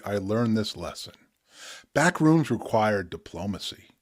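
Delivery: measured poetic reading with pauses; spoken word poetry. Acted. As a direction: read the poem with weight, unhurried. Reads his poem The Back Rooms.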